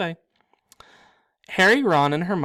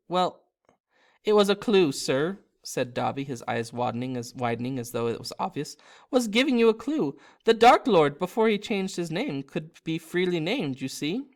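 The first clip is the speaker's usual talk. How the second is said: lightly voiced Dobby; 3 semitones higher than usual. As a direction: explain it as obvious, elf-like. Dobby explains the clue.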